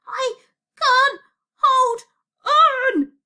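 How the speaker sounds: very high, loud, word by word; desperate straining cry. Acted. Losing grip outside speeding train.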